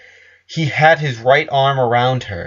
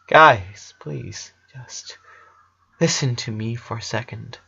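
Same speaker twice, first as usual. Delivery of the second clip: put-on boy asking. A narrator's reading. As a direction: ask them gently to listen. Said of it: "he asked".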